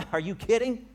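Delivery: high, loud laughing disbelief; are you kidding, half laughing; incredulous laugh. Acted. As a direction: scoff at the idea with a laugh. Preacher mocks naive reaction.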